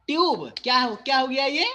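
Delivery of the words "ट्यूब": ट्यूब said as tyoob, the y glide kept; pronounced tyub. Shown as a demonstration. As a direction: say ट्यूब with a clear y before the oo. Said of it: "टा और यू ट्यू और last में बी बा". (ट्यूब को ट्यू-ब की तरह, य की ध्वनि के साथ)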